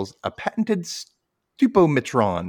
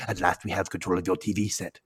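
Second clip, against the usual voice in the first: lightly voiced Ren; 4 semitones lower, 5 dB quieter than usual. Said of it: "crazy-eyed Ren, who says".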